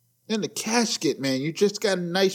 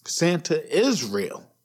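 put-on reassuring the kids; slower than usual. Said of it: "So, kids, if you're listening".

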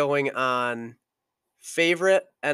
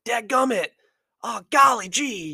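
higher, louder mock outburst of clean curses; fired-up mock cursing; 9 semitones higher, 4 dB louder than usual. Quarterback fired up after a hit, mock clean cursing. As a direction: act out a quarterback fired up but refusing to swear. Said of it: "every time he gets so fired up, he's like".

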